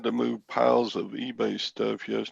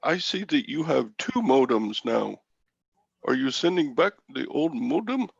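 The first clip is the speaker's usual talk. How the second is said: imitated Indian accent; 2 semitones higher than usual. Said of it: "you could do that accent".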